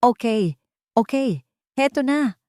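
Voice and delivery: playful give-in with a hint of laughter; laughing reply. A narrator's reading. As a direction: uncle humoring the kids, lightly amused. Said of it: "natatawang sagot ni Samuel".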